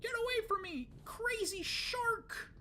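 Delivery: high, loud mock-terrified shriek; hammed-up high scream; panicked yell. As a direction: yell at the attacking shark, stretching the last words. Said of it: "I might yell".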